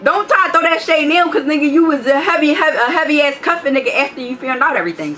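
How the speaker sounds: heated scolding. Real, not acted. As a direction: call him out hot, pitch up.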